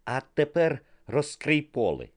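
photographer's instruction. A narrator's reading. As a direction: coax the model to open the coat. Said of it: "сказав Нікі".

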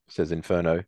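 usual speaking voice

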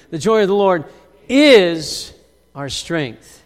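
call and response. Shown as a demonstration. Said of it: "somebody say that word with me".

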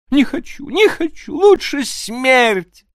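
woman terrified of being sent back; crying out. Acted. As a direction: refuse in panic, slowing on смерть. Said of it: "вскрикнула Аннушка".

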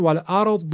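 "والارض" ending in a thick, heavy d; heavy Egyptian Dad. Shown as a demonstration. Teacher giving an example word, heavy d. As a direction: thicken the last consonant of "والارض" into an emphatic d. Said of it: "همون دال درشت شده".

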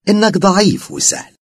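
high, loud, mocking possessed woman; eerie possessed voice. A narrator's reading. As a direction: speak as the jinn inside her, sweetly menacing. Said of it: "بأسلوب عجيب". (صوت ممسوس مخيف)

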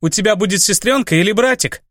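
быстро, выше и громче, на одном дыхании; выпаливает новость сыну; выпалила. Acted. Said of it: "и выпалила". (мама взволнованно выпаливает новость сыну)

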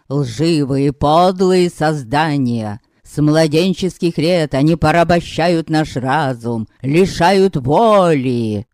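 slow, emphatic speech to a crowd; lightly voiced pompous orator; orator's speech. Pan Zusek addressing the hall, slow and emphatic.

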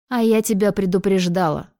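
ordinary delivery, nothing marked

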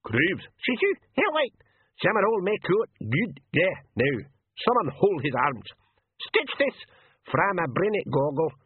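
high, broken pixie brawl; high-pitched dialect rabble in a fight; screaming pixies. A narrator's reading. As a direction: squawk it like tiny men scuffling. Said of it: "and a scream of".

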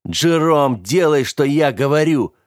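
commanding shout. Acted. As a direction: force him to obey. Скэрилл приказывает, кричит. (громкий приказ)

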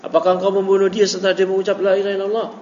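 cornering tone. Shown as a demonstration. Teacher repeating the Prophet's question to Usama, cornering. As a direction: press the question like a charge.

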